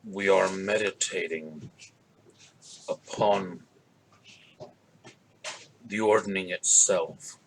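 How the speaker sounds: low gravel growl; slow, deep and gravelly. Acted. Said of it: "a kind of a deep, gravelly voice".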